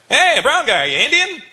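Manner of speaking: high, loud call to the audience. Retold or imitated. Comic re-enacting calling to an audience member, high loud call. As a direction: holler a cheery question into the crowd. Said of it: "I went".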